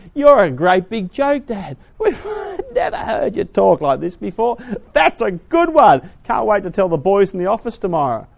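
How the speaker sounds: loud, high laughing mockery; sons-in-law jeering at their father; mocking sons-in-law. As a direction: laugh at the old man, loudly.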